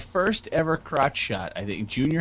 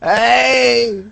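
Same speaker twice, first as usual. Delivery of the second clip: mock cholo; 10 semitones higher, 6 dB louder than usual. Latino cholo voice starts.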